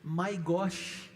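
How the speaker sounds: "My gosh" said in English with a rising end; English exclamation. Shown as a demonstration. Pastor showing the congregation how Americans say "My gosh". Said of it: "eles falam assim".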